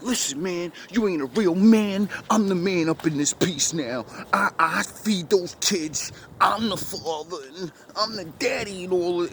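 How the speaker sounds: a hint of the lesbian woman boasting; mild imitation of a woman claiming to be the father; woman's voice. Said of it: "you could hear the woman voice now".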